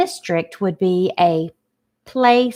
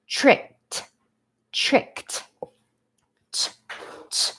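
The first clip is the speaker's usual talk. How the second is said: whispered; 6 semitones higher, 5 dB quieter, slower than usual. Shown as a demonstration. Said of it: "sounding out the syllable".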